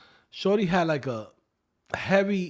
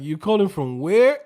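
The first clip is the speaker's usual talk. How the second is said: incredulous question; 4 semitones higher, 10 dB louder than usual. Retold or imitated. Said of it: "I'm like".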